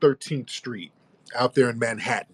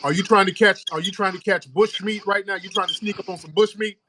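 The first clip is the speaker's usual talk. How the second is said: high teasing voice; 8 semitones higher than usual. Pretend. Host teasing caller, high mock voice.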